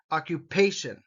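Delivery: Occupation with pay stressed. Shown as a demonstration. Teacher modelling Occupation for students, stress on pay. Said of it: "The emphasis here is on pay".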